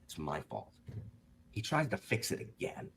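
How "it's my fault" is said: 1 small admission. Retold or imitated. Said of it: "rather than just being like".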